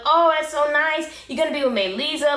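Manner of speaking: high, delighted gush; gushing friend. Retold or imitated. Friend gushing happily over the move. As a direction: coo over the news like a thrilled friend.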